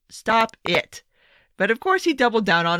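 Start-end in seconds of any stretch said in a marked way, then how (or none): 0.1-1.0 firmer, exasperated STOP it; a scolding, fed-up second stop it. Real, not acted. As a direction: tell him off, fed up. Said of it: "Just shut, stop it".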